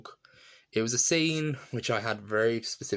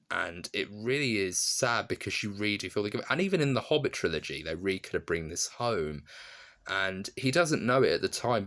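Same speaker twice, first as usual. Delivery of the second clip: usual speaking voice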